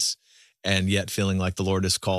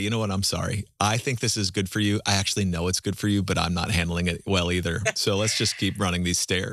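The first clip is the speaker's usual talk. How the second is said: plain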